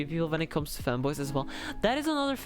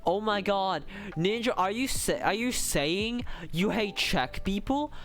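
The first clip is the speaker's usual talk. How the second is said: higher, drawn-out pretend disbelief; mock outrage; 4 semitones higher than usual. Streamer accusing Ninja of hating Czech people, mock outrage. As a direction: play scandalised, stretching out the accusation.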